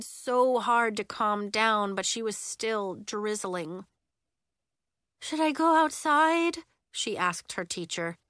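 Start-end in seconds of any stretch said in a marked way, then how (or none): 5.2-6.6 high-pitched timid question; small, high child's voice; anxious child. A narrator's reading. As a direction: ask your teacher like an upset kid. Upset child asks her teacher.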